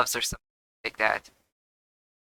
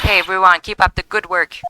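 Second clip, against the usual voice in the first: higher, bright call to a group; cheerful call-out; 4 semitones higher, 3 dB louder than usual. Acted. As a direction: call out a friendly greeting to co-workers. Calls out greeting to officers.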